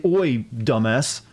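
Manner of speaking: slow mock-Australian mobster jab; Australian accent. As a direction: lightly put on Australian, drawn out. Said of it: "give you the mob an Australian accent".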